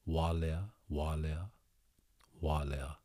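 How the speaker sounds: Walea said slowly and softly with a W; practising Walea. Shown as a demonstration. Host rehearsing the place name for listeners, soft and careful. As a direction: repeat Walea carefully, quietly. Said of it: "I don't know why I cannot say wa".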